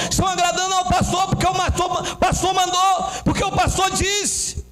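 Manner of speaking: high, fast, driving sermon crescendo; impassioned preaching. Real, not acted. Preacher denouncing those pleasing pastors over God, impassioned crescendo. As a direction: preach at full force, piling up each clause.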